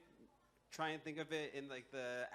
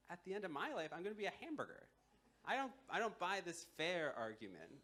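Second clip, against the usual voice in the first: higher-pitched, incredulous grievance rant; indignant ox; 5 semitones higher than usual. Acted. Ox to the man who pleads fairness, indignant rant. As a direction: argue it point by point in a raised pitch. Ox rants about its unfair life.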